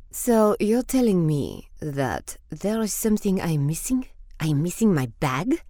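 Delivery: building from disbelief to loud indignation; rising outrage over the missing bag; outraged diva. Acted. Diva discovers lost bag.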